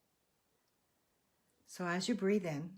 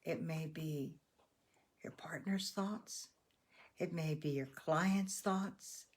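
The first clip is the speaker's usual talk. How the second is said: guided meditation. Real, not acted. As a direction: gently lead them to let go, unhurried. Leads breathing and letting-go meditation.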